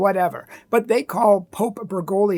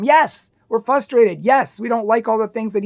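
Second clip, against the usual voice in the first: raised voice; 3 semitones higher, 5 dB louder than usual. Real, not acted. Admitting frustration, raised voice.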